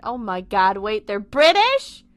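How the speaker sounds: genuine astonished outburst; shocked realization. Real, not acted. Reader discovering the characters are British, real surprise.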